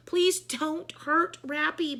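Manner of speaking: slow pleading plea; begging. A narrator's reading. Miss Sookie begging the principal, a slow plea. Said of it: "begged Miss Sookie".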